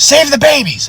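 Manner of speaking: very high, strained plea; desperate cry. Retold or imitated. Old man begging deputy to save babies, desperate high cry. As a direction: imitate frantic begging at the top of the range.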